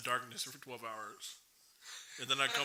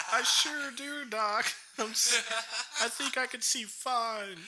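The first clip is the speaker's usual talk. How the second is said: put-on higher, louder kid voice; 9 semitones higher, 6 dB louder, slower than usual. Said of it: "I was like".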